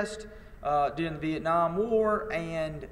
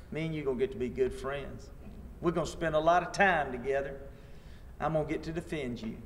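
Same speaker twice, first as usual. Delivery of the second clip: softer, easy and unbothered; calm friendly reply; 3 semitones lower, 5 dB quieter than usual. Retold or imitated. Teacher to the Southern man he'll defend, calm and dryly friendly. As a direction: reassure him with dry calm.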